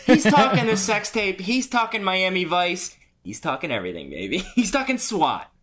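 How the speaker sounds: high, loud, laughing gossip-show hype; hammed-up showbiz teaser. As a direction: sell the scandal like a TV promo. Mock entertainment news teaser.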